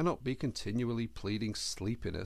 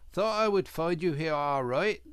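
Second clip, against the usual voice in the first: hearty, louder greeting; cheerful; 6 semitones higher, 6 dB louder than usual. A narrator's reading. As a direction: bluff cheerful Otter. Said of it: "said the Otter cheerfully".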